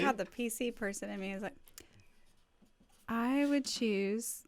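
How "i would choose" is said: slow, poised pageant answer; poised beauty queen answer. Shown as a demonstration. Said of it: "this is my pageant voice".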